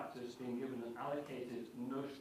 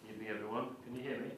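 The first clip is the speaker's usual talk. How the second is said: hoarse, croaky throat; much faster than usual. Real, not acted. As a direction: speak through a croaky voice. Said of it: "the croaky voice".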